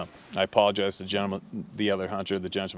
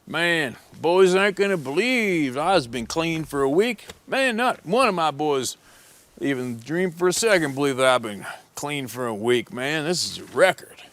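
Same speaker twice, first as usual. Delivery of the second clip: high, loud, slow bragging; boasting junkie; 7 semitones higher, 4 dB louder than usual. Retold or imitated. Junkie hunter bragging to the guide behind him, high slow boast. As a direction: crow about it way up high. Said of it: "he goes".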